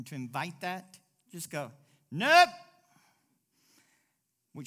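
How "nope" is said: loud, high, sharp "Nope"; a blunt shouted no; emphatic refusal. Shown as a demonstration. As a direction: slam the door on sympathy. Rejecting sympathy emphatically.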